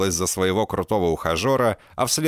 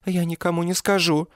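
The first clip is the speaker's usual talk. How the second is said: high, frightened murmur; terrified babble; 11 semitones higher than usual. A narrator's reading. Girlfriend begs the killer at gunpoint, high and frightened. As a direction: plead for your life in a small voice. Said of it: "пролепетала она в ужасе".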